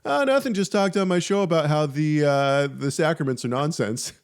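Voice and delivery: airy high mock-innocent answer; breezy innocent reply. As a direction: play it falsely casual, like it's nothing. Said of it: "And I was like".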